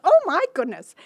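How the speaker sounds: high, loud exclamation; storyteller's startled fairy godmother; acted astonishment. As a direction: exclaim in mock dismay, voice leaping up. Godmother's surprise on seeing the rags.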